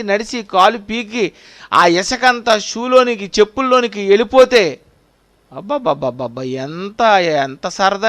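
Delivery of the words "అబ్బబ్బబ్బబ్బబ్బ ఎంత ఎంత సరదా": mock delight. Mock delight at sand in shoes.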